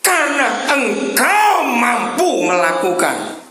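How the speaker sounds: high, slow crying shout as God; voicing God. Preacher voicing the Father to his people, crying shout. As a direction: cry it out as the Father's rebuke. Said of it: "kata Bapa di surga".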